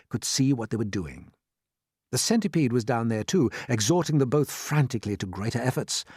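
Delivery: plain reading voice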